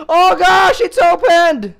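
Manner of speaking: gasp, then high startled cry; alarmed cry. Real, not acted. Player finds the door open, alarmed cry.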